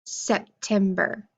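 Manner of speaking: slow, split into syllables; sep-tem-ber, one clap per part, slow; clapped syllables. Shown as a demonstration. Teacher clapping out syllables for the class, slow and split. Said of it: "let's try September".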